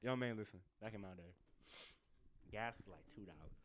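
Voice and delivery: grumpy elder. Pretend. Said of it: "Respect the elders".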